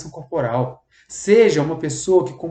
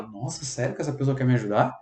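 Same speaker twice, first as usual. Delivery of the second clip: relieved surprise. Retold or imitated. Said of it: "E ela".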